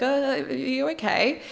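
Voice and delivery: mock stammered check on someone crying; concerned fiancé. Man to his wailing fiancée on the couch, mock concern. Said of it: "crying. He's like".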